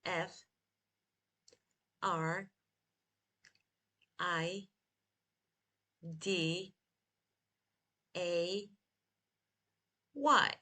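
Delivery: slow, evenly spaced single letters; spelled slowly. Shown as a demonstration. Teacher spells Friday again for learners to follow, slowly. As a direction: take it letter by letter with long pauses. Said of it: "Again, slowly".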